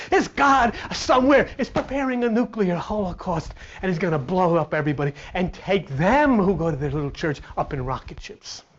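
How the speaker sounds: usual speaking voice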